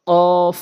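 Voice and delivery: heavy, drawn-out uvular কফ; tongue-root Q. Shown as a demonstration. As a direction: say কফ far back against the palate, vowel held. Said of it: "কফটা জিহ্বার গোড়া".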